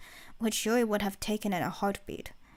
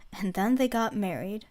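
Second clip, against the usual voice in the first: warm smiling agreement. Acted. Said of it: "agreed with a small smile".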